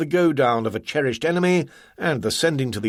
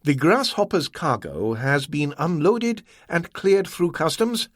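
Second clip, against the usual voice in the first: a higher, watchful merchant voice; Ah Wong, scrutinizing; 5 semitones higher than usual. Acted. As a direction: lay out the symptoms coolly. Ah Wong business.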